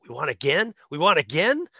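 disbelieving questions, each rising at the end; mock astonished fan; incredulous. Acts out fans' disbelief at winning.

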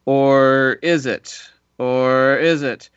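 hammed-up spooky doubt; mock suspense. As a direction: drag it out like a movie trailer twist.

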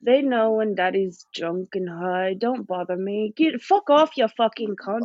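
lightly voiced boozy dad; mock Caps boasting; Caps impression. S1 playing Caps talking about his kids. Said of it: "our best impersonation of you".

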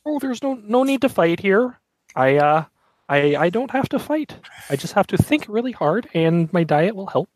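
high, lightly put-on puppeteer voice; a touch of a showman puppeteer. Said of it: "your voice sounds very, very familiar".

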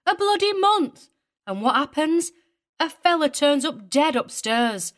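put-on very high, riled woman with a broad English accent. A narrator's reading. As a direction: rant in a broad, untamed regional accent. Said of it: "her broad accent untamed".

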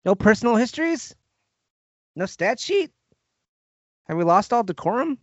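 high-pitched, playful protest; mock indignation. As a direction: feign shock at a lapse in procedure. Playfully protests skipped show segments.

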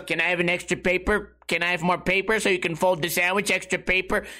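lightly robotic kid imitation. Weird kid asking for extra paper, robotic voice. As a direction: mimic a monotone teenage customer. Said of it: "it's a weird robotic voice like this".

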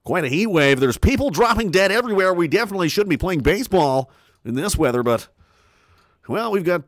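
lightly voiced folksy ballpark announcer; a hint of a laid-back play-by-play man; baseball announcer. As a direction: call the game like an old radio announcer. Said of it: "a guy who talked like this".

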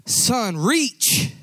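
calling out. Acted. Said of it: "The father yells out to the son".

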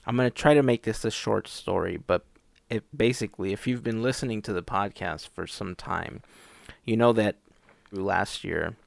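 speaking around a new retainer; tongue hampered by a retainer; retainer in mouth. Real, not acted. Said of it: "I'm having a lot of trouble speaking".

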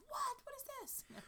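high, incredulous mock outrage; baffled Scots local. Scottish viewers mocking fake accents on TV, incredulous. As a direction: play the offended Scottish viewer, voice shooting up. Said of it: "they're like".

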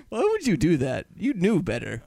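ordinary talk, nothing marked

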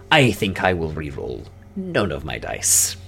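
slow, drawn-out dwarf announcement; smug dwarf. Acted. Dwarf to rivals over dice, slow and smug. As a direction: savour each word as the dwarf standing pat. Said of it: "The dwarf goes".

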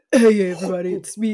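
put-on husky stage greeting. Shown as a demonstration. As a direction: do a mock husky voice. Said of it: "I'm gonna do the husky voice".

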